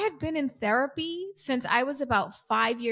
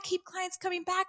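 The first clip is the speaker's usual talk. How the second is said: softer, higher mocking repeat; mocking echo; 8 semitones higher, 5 dB quieter than usual. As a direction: echo it back under your breath, mockingly. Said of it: "people say to me".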